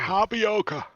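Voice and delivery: high, exaggerated "tapioca"; put-on teasing voice. Player teasing a friend who hates tapioca, put-on voice. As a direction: say it high to needle a squeamish friend.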